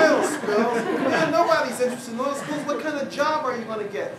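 loud, laughing disbelief; scoffing colleagues. Retold or imitated. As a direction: scoff at the idea while laughing. Colleagues mocking the topic.

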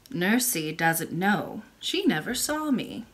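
put-on low, slow old woman; a gentle old grandmother speaking; old lady voice. Old lady answers the princess.

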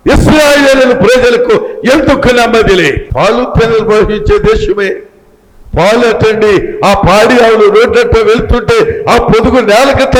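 lively, projected preaching. Acted. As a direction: paint the scene for the congregation with pulpit energy. Preaches with raised voice.

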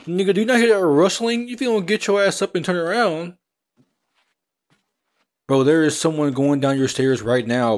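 high, loud yelling warning; urgent shouting. Real, not acted. Player yelling at character to face the intruder, urgent shouting. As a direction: scream at him to turn around.

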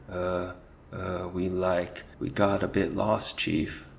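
stammering, glancing back in fear; halting and scared. Acted. Henchman stammering fearfully to his chief. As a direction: stumble over the words, frightened. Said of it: "Cheese Thief spoke haltingly".

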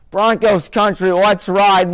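lightly mocking the team's rallying cry; mock slogan. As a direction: announce it like a proud ad tagline. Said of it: "More like Broncos country, let's die".

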